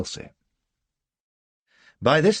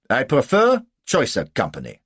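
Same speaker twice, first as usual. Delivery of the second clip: raised, loud, haughty snub; offended German officer; 6 semitones higher, 8 dB louder than usual. A narrator's reading. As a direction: snub the lady stiffly. Offended German snubs the lady.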